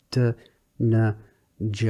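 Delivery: D, n, j at the front of the palate; soft consonants. Shown as a demonstration. Teacher showing the soft front consonants D, n, j. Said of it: "If you try saying those".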